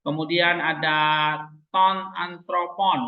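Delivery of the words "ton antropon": slow demonstration. Shown as a demonstration. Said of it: "ini semua namanya satu phrase".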